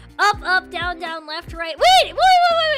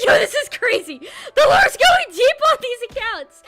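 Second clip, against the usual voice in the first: laughing; 2 semitones higher, 4 dB louder than usual. Real, not acted. Laughs at follower names.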